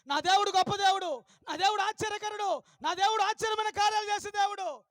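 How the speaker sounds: loud declaration of faith; bold proclamation. Retold or imitated. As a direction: proclaim it to the whole school. Girl boldly declares faith to principal. (అమ్మాయి ధైర్యంగా గట్టిగా ప్రకటించడం)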